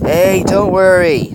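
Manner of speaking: high, loud, drawn-out reassurance; placating. A narrator's reading. Costumed stranger to startled youngsters, placating. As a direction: stretch it out to placate, lifted in pitch. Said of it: "the voice said placatingly".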